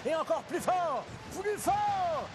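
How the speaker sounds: building intensity. A narrator's reading. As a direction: climb with each blow. Narration builds huffing harder.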